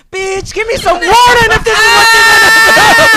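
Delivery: high furious shout at his wife; angry yell. Retold or imitated. Husband yelling at wife over no warning. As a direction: scream at her for no warning. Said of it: "'Cause I heard screaming".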